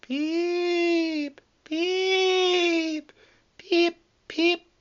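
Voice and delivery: very high, long drawn whistle shrieks; shrieked peeps. A narrator's reading. Percy gliding through the shed to scare Thomas, shrieking. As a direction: shriek like a ghostly engine whistle. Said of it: "he shrieked".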